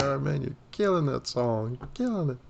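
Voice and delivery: high, teasing mock praise. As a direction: imitate a wife's teasing compliment. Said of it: "She's like".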